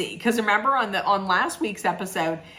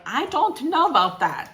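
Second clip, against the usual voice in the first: hammed-up, deliberately bad Russian accent, pitched higher; a clumsy mock Russian accent; 7 semitones higher than usual. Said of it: "the absolute worst Russian accent".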